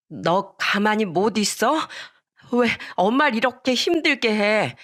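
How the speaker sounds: drawn-out exasperated reproach; acted motherly telling-off; scolding mother. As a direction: scold your child in exasperation.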